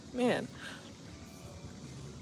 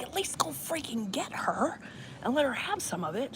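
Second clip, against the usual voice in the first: mock pleading; 9 semitones higher than usual. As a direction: beg a little, half-joking. Pleading to share the wine.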